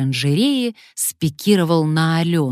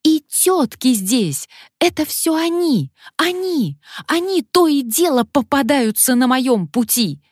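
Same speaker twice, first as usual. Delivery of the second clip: wailing shriek; 9 semitones higher than usual. Acted. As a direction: scream accusations. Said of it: "завопила ещё громче".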